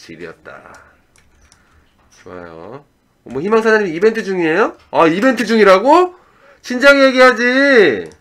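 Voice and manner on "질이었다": dropped-down, low, deep, breathy near-whisper. Saying a slang word with the voice lowered: low, deep voice. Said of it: "그거를 좀 목소리를 깔고".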